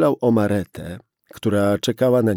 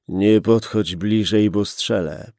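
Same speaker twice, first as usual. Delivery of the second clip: louder "Nie podchodź bliżej", stress on "Nie"; repeated threat; 4 dB louder than usual. Acted. Gunman repeating his warning to the policeman, louder threat. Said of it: "powtórzył mężczyzna".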